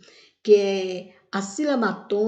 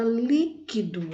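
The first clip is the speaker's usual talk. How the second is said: "líquido" with LÍ leaned on and held; stressed first syllable; 2 semitones higher, slower than usual. Shown as a demonstration. Teacher giving an antepenultimate example, "líquido" with stressed LÍ. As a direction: lean on the LÍ of "líquido". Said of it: "tem uma sílaba forte".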